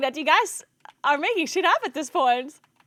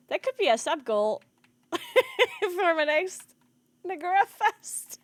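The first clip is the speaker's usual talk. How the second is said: giggling; 3 semitones higher, slower than usual. Real, not acted. Streamer giggling at own joke.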